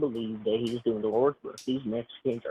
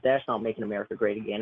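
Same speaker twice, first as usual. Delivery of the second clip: fake Southern accent. Caller trolling the streamer in a fake Southern accent. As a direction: play up a Southern accent, not quite landing. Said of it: "your accent's, like, not even really good".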